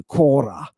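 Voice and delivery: Korah said the Doric way, long open final a; Doric pronunciation. Shown as a demonstration. Teacher showing the class the Doric Korah. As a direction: say Korah as the Dorians do. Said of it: "I pronounce it like the Dorians do".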